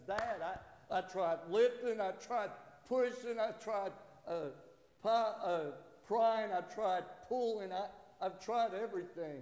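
frustrated protest. Retold or imitated. Young son to his dad about the rock, frustrated protest. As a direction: play a kid pleading his case, lightly.

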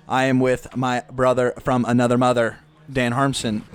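a hint of the Toy Story alien; lightly voiced little green alien. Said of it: "Why'd you say that in, like, the little green alien voice from Toy Story?".

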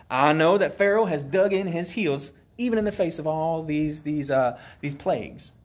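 put-on rally the people in a folksy Alabama accent; Alabama-accented Moses. Moses telling the enslaved Israelites tonight's plan, in an Alabama accent. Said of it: "why Moses got an Alabama accent".

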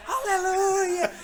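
very high, loud, slow wailing hallelujah; drawn-out ecstatic cry. Retold or imitated. Belgian man staring at me, slow high loud hallelujah. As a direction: stretch it out like a rapture.

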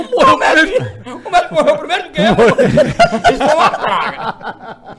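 high, loud laughing through the punchline. Real, not acted. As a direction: crack up while telling it. Punchline of the doctor story.

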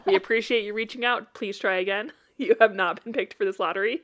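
politely voiced form rejection, a little lifted; mock-polite reply. Hosts turning down bigoted listener suggestions, mock-polite. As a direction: recite a courteous brush-off, holding back laughs. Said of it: "we will politely respond".

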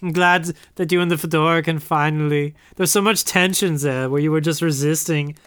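put-on German accent; bad German accent. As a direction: say it as a comic German. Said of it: "this really bad German accent".

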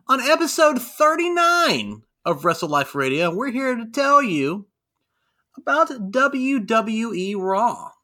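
booming showman intro, drawn out; ringmaster. Acted. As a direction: announce it like a circus ringmaster. Podcast opening announcer intro.

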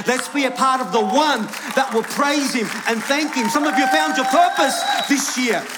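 rising, impassioned preacher's exhortation; rally the congregation to praise; preaching with force. Real, not acted. Preacher rallying church to praise God, rousing preaching.

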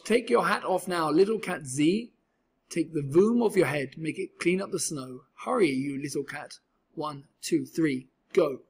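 a mild storybook yell at the little cat. Acted. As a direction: hurry him on, calling out. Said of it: "Then he yelled".

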